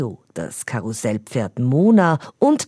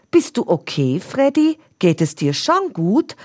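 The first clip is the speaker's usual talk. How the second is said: worried Leo; 7 semitones higher than usual. A narrator's reading. Leo asks worried friend.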